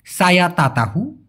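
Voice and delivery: slow Malay demo. Shown as a demonstration. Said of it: "যদি আমার কথা বলা একটু দ্রুত হয়ে যায়".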